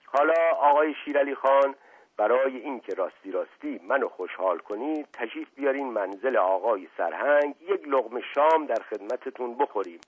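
butter him up, lightly played; smooth flattering prince. Asadollah flattering the butcher, a hint of suave charm.

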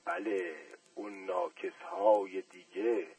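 slow and soft, pleased; satisfied smile. A narrator's reading. Uncle repeating the shoe-shiner's phrase with a satisfied smile. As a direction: savour the words with a smile. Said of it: "با لبخند رضایت تکرار کرد".

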